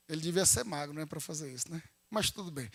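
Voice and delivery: very soft, low throwaway remark; muttered aside. Real, not acted. Preacher commenting to the congregation on the kneeling pose, muttered aside. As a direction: drop right down for a private aside. Joking aside amid the story.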